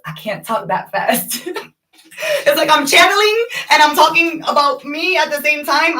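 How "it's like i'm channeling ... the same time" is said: laugh-shouted words. Real, not acted. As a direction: crack up while explaining. Laughing after channeling overwhelm.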